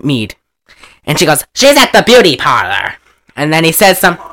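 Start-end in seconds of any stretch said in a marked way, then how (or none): 1.5-2.9 lightly put-on screen actress voice; hammed-up Hollywood dame impression; Bette Davis. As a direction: do an all-purpose old movie diva. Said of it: "my Betty Davis voice is my Phyllis Diller voice".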